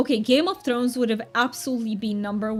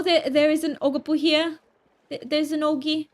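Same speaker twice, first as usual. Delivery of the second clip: amateur English accent put on for fun; hammed-up mock British; terrible British accent. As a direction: do a playful, imperfect British accent. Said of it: "I've been doing the British accent".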